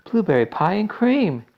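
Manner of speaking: high, loud cry of delight; excited shout. A narrator's reading. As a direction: announce the treat with glee. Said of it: "shouted Violet".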